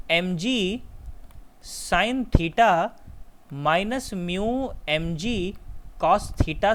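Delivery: slow, spaced out with long pauses; slow dictation. Real, not acted. Teacher dictating a formula to students, slowly. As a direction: spell out the formula piece by piece.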